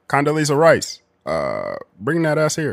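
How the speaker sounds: swooping, sing-song politician voice with swinging pitch. Imitating Barack Obama calling Condoleezza Rice over: Barack Obama impression. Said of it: "be like".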